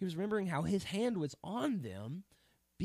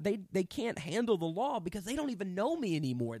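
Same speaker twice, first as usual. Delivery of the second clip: raised, frustrated preacher voicing God; a touch of anger, pitched up in accusation; mildly angry, hurt God; 3 semitones higher, 3 dB louder than usual. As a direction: push it out with indignant disappointment. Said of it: "you could hear some anger behind God's voice".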